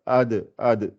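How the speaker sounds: ad with the d bouncing; ad, the d released with a bounce; qalqala bounce. Shown as a demonstration. Teacher shows the bounce on ad. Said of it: "C'est comme la dalle".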